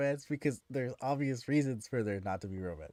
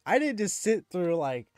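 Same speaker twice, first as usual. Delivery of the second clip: indignant retort; 4 semitones higher, 4 dB louder than usual. Retold or imitated. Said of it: "I'm like".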